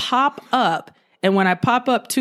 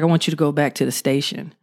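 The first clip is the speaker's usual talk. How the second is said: lower, a hint of a G I Joe type sergeant; deep sergeant voice; 4 semitones lower, faster than usual. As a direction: lightly drop into a deep commanding sergeant. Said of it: "G I Joe type dude with a real deep voice".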